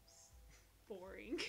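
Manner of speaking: whispered. Real, not acted. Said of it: "marketing is".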